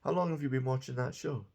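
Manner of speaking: "How long have you been watching that show?" said fast; quick question. Shown as a demonstration. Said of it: "I'm watching the show".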